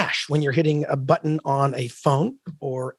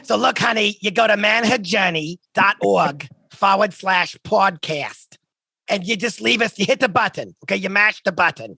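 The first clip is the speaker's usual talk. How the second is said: lightly voiced old smoker lady; 2 semitones higher than usual. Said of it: "Can I use my old lady smoker voice?".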